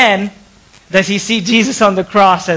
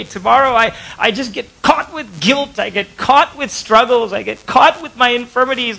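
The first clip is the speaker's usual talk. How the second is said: excited fervent prayer; 4 semitones higher than usual. Acted. Preacher voicing a believer's prayer to God, fervently. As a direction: pray it with rising fervor, half-performed. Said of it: "Sorry if I'm getting too excited".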